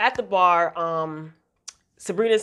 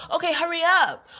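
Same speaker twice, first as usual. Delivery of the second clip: mock whiny nag; 8 semitones higher than usual. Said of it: "she's whining for them to hurry up".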